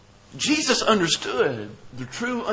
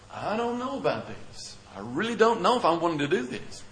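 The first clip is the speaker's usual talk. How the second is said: soft, reluctant inner voice; hesitant thought; 5 dB quieter than usual. Acted. Preacher voices a listener's doubt about giving up, hesitant.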